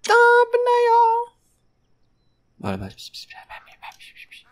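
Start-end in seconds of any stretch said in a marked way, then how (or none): 0.0-1.3 very high squeal; squeaky announcement. Acted. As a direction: squeak it out like a cartoon. Announcing the thumbnail shot.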